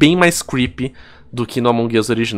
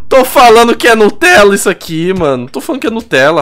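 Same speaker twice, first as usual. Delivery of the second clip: excited; 8 semitones higher, 7 dB louder than usual. Real, not acted. Excited exclamation.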